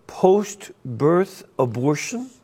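incredulous question; surprised. Real, not acted. Host stunned by guest's claim.

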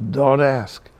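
lightly voiced old Jewish lady; a hint of Jewish accent, said as a weary brush-off. Old lady answering her neighbor on the street, light Jewish accent. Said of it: "That's very Jewish".

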